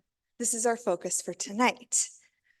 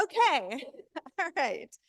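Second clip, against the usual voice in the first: out of breath; 4 semitones higher than usual. Real, not acted. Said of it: "sorry, I'm breathing heavy".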